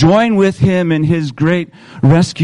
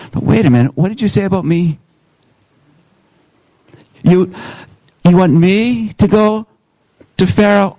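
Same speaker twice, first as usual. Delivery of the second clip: incredulous Moses; 4 semitones higher than usual. Acted. Moses shocked by God's call.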